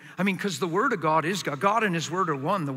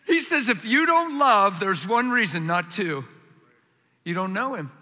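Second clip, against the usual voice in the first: louder emphatic preaching; 3 semitones higher, 5 dB louder than usual. Real, not acted. Repeated loudly.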